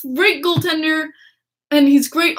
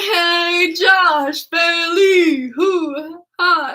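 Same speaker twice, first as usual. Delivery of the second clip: playful greeting; 3 semitones higher, much slower than usual. Retold or imitated. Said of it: "went up to Josh Bailey and went".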